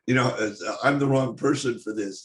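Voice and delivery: laughing it off, unsure of yourself; nervous laugh. Real, not acted. To the translator, protesting he's the wrong person, with a nervous laugh. Admits being unfit to adopt.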